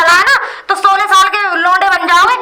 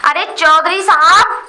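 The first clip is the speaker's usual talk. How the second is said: calling out. Acted. Visitor summoning the village elder outside, calling out. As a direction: summon someone from outside the house. Calling Chaudhary out of his house.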